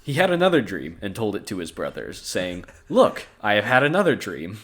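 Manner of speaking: measured storybook narration with clear phrasing; scripture read-aloud. A narrator's reading. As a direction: read the Bible passage aloud. Reads the Bible story aloud.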